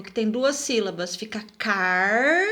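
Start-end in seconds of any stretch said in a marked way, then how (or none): 1.6-2.4 car held long, then a pause; slow, drawn-out car, cut off from ro; first syllable alone. Shown as a demonstration. Teacher separating double R, syllable held apart. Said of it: "precisam se separar".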